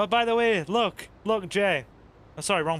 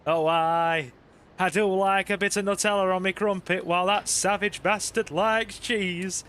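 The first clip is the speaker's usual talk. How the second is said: lightly Northern English, mock indignant. Streamer imitating his wife in a light Northern English voice. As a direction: play the Northern wife defending her crumpets. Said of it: "the Northern's coming out in her".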